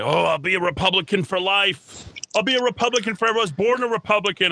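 high, fast mocking singsong; Karen Bedonie. Mocking a rival candidate's words.

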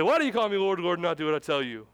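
sudden loud scolding on Why; harsh rebuke. Shown as a demonstration. Jesus suddenly rebuking his disciples, loud and harsh. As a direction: snap at the disciples. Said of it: "does Jesus just flip a switch".

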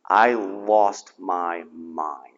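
whispered very low and slow. Real, not acted. Whispers his breakdown to the congregation, very softly.

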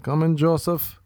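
mom's voice. Retold or imitated. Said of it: "And she's like".

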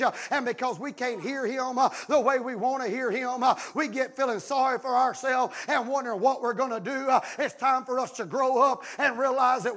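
rhythmic sermon cadence, gathering force; driving preaching. Acted. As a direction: press on phrase after phrase.

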